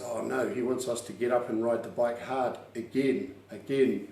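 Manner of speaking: low, soft mock grumble; lightly acted groan of dread at another round; dismayed class. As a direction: grumble it quietly as the reluctant riders. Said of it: "And you goes".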